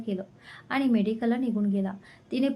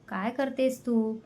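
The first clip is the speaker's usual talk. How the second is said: angry, slow; slower than usual. Acted. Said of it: "तो रागात म्हणाला".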